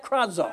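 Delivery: Krazo said KRAH-zo, first syllable stressed, falling; leading the church in saying Krazo; say krazo for them. Shown as a demonstration. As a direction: model Krazo slowly for the congregation to repeat. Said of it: "Can you say that?".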